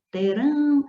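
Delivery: terão with a high, held RÃO; stressed final syllable. Shown as a demonstration. Teacher showing the word is oxytone, stressed RÃO in terão. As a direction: lift and hold the last syllable of terão. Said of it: "essas palavras são oxítonas".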